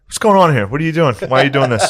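mock-outraged dad questioning; retold bewildered annoyance. Imitating dad upset by matching outfit.

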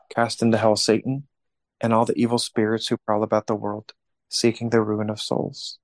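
steady reverent prayer voice; prayer recitation. Acted. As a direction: recite it like a rosary leader. Leads the St Michael prayer.

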